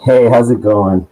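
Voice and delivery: echoey, like in a cave. Real, not acted. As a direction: voice bouncing off cave walls. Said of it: "you just sound like you're in a cave".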